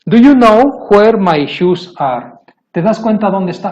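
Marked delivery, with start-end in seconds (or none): 0.1-2.3 slow, loud and higher, every word placed; teacher showing the fixed sentence, slow and loud; slow emphatic model. Shown as a demonstration. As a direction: drill the correct sentence for the class. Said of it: "aquí ya cambia".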